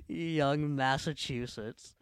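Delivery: slow, drawn-out. Shown as a demonstration. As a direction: stretch each syllable of Young Massachusetts slowly. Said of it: "Oh, that's funny".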